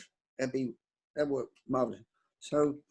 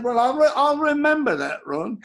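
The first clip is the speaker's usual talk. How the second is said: veiled threat; 8 semitones higher, 6 dB louder than usual. Retold or imitated. Retold veiled threat to Ron.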